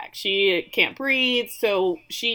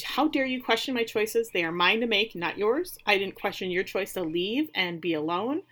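indignant; 2 semitones higher than usual. Retold or imitated. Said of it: "she says".

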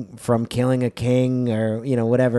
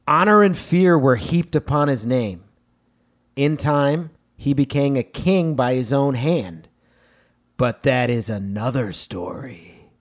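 gravitas. Shown as a demonstration. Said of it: "let me do a little gravitas".

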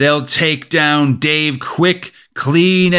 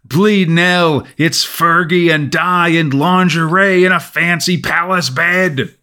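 seductive voice; 4 semitones higher than usual. Acted. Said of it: "a seductive voice calls out".

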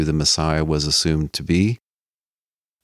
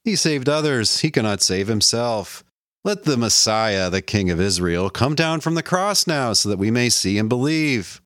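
higher, sing-song scornful jeer; mocking taunt; 5 semitones higher than usual. Chief priests scoffing at Jesus, high mocking jeer. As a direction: jeer at the man on the cross. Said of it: "mocking him among themselves".

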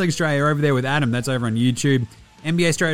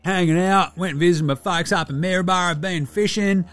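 higher-pitched ocker larrikin, casually enthusiastic; Delly, laid-back Aussie mate; 6 semitones higher than usual. Acted. Player checking in with fans to review a show, laid-back ocker mate. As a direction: play a chilled, sweary bloke reviewing telly.

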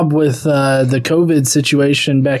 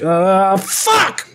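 helpless rage. Retold or imitated. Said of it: "and he's just like".

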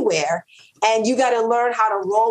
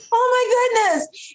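mock crying; slower than usual. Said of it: "I'm about to cry".

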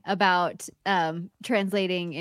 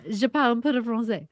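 laughing French; 3 semitones higher, much faster than usual. Real, not acted. Repeating her French, laughing.

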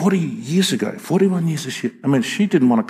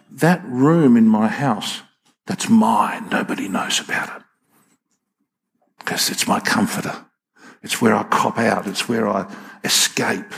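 hushed secret confession; 4 semitones lower than usual. Retold or imitated. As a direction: confide it like a guilty secret. Voicing the addict's secret confession.

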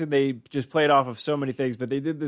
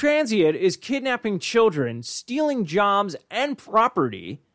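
mock outrage; 6 semitones higher than usual. Mock news alarm about Santa.

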